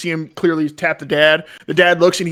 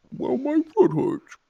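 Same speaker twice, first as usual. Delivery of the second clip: higher, slow whine; whiny yak; 8 semitones higher, 4 dB quieter, slower than usual. Acted. Yak whining to the travelers, higher slow whine. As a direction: whine about the sore foot.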